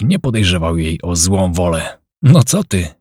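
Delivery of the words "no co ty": a mildly offended protest, higher and louder; indignant. A narrator's reading. Kaśka to Robert, taking offence at his jibe, indignant. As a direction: bristle at the accusation. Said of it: "obruszyła się".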